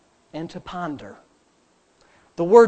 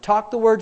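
"Talk the word" pitched up, firm; spoken-out emphasis. Shown as a demonstration. Preacher drilling day-and-night habit, "Talk the word" said out firmly. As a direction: say "Talk the word" out, raised against its answer. Chanted contrast of talk, think.

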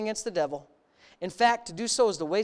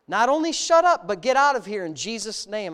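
commanding shout; 4 dB louder than usual. Retold or imitated. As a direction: bark the order to get out. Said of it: "I commanded".

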